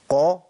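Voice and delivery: "قا" heavy, with lips pushed forward; pouted qaf. Shown as a demonstration. Teacher shows the lip shape, pouted qaf. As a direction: round the lips for a full, dark "قا". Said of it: "قاف، تاخد هيئة تبويزة".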